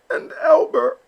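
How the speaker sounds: high, loud call; mama calls out to the flock; mother duck raising her voice. Acted. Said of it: "Mama called out".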